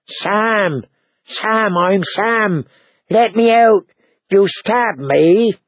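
high, tearful wail of a frightened man; sobbing. A narrator's reading. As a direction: whimper and protest through sobs. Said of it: "The black thing sobbed".

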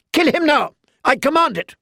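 very high, furious shrieked command. A narrator's reading. Boy king screams for the knight's death, very high. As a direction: scream the order.

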